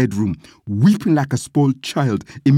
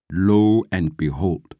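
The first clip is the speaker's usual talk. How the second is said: plain reading voice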